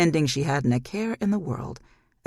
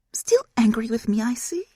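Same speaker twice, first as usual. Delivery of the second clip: mocking whisper; 8 semitones higher, 4 dB louder than usual. Demon needles her daughter.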